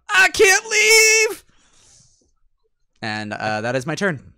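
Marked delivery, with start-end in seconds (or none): 0.1-1.4 loud, high-pitched in-character yell; shouting. Acted. Player in the dome shouts to the party, high loud shout. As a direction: shout it out across the battle. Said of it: "I'm gonna shout".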